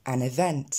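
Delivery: "event" opening on a short è-like sound; correct vowel. Shown as a demonstration. Teacher correcting with the E sound, correct pronunciation. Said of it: "C'est bien le son E".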